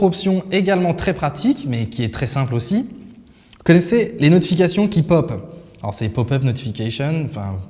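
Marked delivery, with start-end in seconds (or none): 6.1-7.3 "pop-up notification" in a mock English accent, "notification" with an English "sh"; bad English accent. Shown as a demonstration. Tech vlogger jokingly shows off his bad English accent. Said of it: "mon petit accent anglais pourri".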